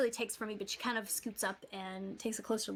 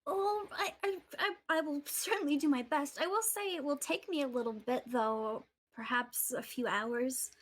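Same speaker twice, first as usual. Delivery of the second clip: nervous stammer; 4 semitones higher than usual. Acted. GM voicing Eliza.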